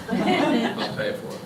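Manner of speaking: slow words through a laugh. Real, not acted. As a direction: laugh while offering, joking. Guest jokes, laughing.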